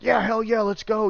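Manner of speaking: high, loud, gung-ho imitation; eager grandpa. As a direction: play the old man suddenly raring to go. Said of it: "my grandpa's like".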